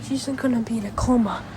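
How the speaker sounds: monotone robot voice; flat mechanical robot delivery. Retold or imitated. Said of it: "Just like in the robot voice like this".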